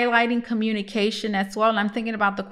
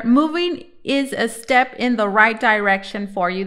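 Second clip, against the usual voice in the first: a bit louder so the viewers catch it; repeated clearly and louder; 4 dB louder than usual. Shown as a demonstration. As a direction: say it again for those who missed it. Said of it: "if you didn't hear".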